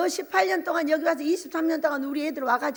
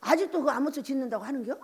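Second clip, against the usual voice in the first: mocking; 3 dB quieter than usual. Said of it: "이렇게 비웃거든요".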